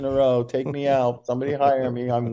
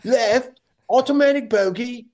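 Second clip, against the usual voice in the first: high and louder, venting; imitated angry outburst; 12 semitones higher, 6 dB louder, slower than usual. Wallace venting at his caddy, high loud outburst. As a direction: blurt it out in disgust. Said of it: "and he goes".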